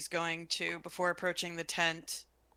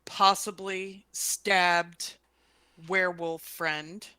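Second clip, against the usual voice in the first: urgent message; 5 dB louder, slower than usual. Acted. Telepathic warning message to Roden.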